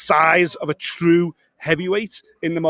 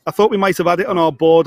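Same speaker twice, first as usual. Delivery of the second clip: louder, spelling it out so it gets through; repeated louder for a bad line; 2 semitones higher, 6 dB louder than usual. Real, not acted. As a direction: say it again louder over a bad connection. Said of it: "I can't hear you, brother".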